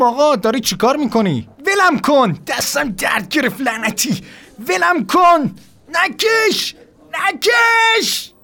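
high, rising yelps of someone being dragged; panicked protest. Retold or imitated. Nurse drags him, he protests.

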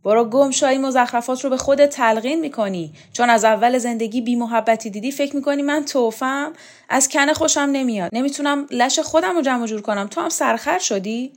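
high, loud, irritated rebuff; angry scolding. A narrator's reading. Showkat twists clingy Borzu's wrist and tells him off, scolding. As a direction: tell him off sharply and push him away.

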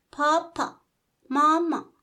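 high, loud mechanical doll chirp; the toy doll squeaks when squeezed; talking doll voice. Acted. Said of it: "گفت".

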